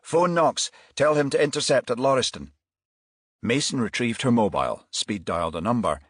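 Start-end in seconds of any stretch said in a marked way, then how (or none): 0.0-2.5 called out. A narrator's reading. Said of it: "called out".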